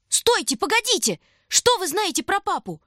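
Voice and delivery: high, urgent call after him; shout. A narrator's reading. Boy calling after the stranger on the stairs, high and urgent. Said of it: "крикнул Шурка".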